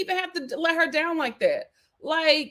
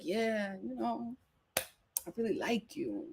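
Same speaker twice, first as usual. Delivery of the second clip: mock bored Johnny; 2 semitones lower, 12 dB quieter, slower than usual. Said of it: "Johnny's like".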